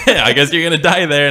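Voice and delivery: high-pitched laughing agreement; real laughter. Real, not acted. Agreeing with friend's morbid joke, laughing. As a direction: laugh as you repeat the joke.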